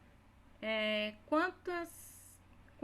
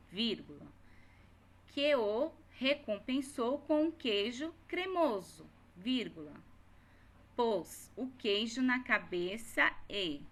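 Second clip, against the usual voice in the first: dictating. Shown as a demonstration. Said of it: "dictating the corrected text".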